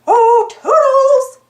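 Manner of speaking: high, slow, loud sing-song call. A narrator's reading. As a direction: call out across the room, drawn out. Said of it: "Mickey called".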